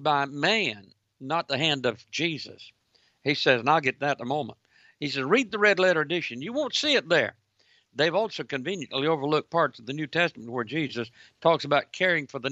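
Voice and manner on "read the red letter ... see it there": high, taunting quote of a challenge; mock sarcastic. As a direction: throw it out mockingly, voice lifted.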